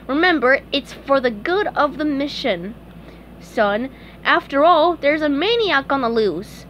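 lightly voiced earnest hall monitor; a hint of self-important duty. SpongeBob reassures Patrick about the mission, hall monitor voice. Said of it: "In his best hall monitor voice".

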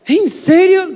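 put-on high, loud disbelieving kid; surprised. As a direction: squeal it in disbelief. Son reacts to father's grade. (incredulidad aguda y fuerte del hijo)

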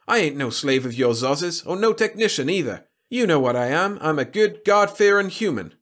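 loud, high-pitched protest; emphatic, worked-up denial; indignant objection. A narrator's reading. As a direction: insist on it with rising indignation. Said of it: "objected Jacob".

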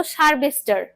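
সার্ভেস্টার said as one run-together word for sub registrar; garbled sub registrar. Shown as a demonstration. Teacher showing how people mispronounced sub registrar, garbled. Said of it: "মানুষ উচ্চারণ করতো".

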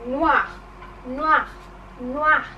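punched elephant impression; playful elephant demo. Shown as a demonstration. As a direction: say it like a big elephant. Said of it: "Like an elephant".

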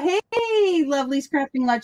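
a light impression of a crafting vlogger; lilting greeting. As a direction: imitate her lilt on the channel greeting. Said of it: "puts a little lilt on it at the end".

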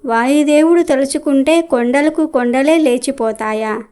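a mild, disbelieving question mark on లేచిపోతాయా; scoffing question. Acted. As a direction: throw the sage's own words back, lightly mocking. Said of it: "పెద్ద గొంతుతో అరిచినట్టుగా మాట్లాడింది".

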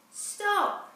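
sharp high shout of stop; teacher's shout. Acted. Teacher stopping a clumsy fairy's spells, shouting. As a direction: cry out to halt the spell. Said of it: "Then the teacher cried out".

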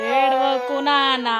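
slow, drawn-out coaxing. Real, not acted. Soothing a crying child. (సాగదీస్తూ బుజ్జగింపు)

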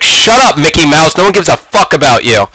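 high opening, then dismissive; retold angry comeback. Player firing back at a heckling rival, mock-angry retort. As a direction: cut the heckler down, mildly hammed up.

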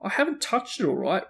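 high-pitched indignant denial; heated but contained retort; roared back. A narrator's reading. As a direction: protest hotly, mildly roaring. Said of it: "Ron roared back".

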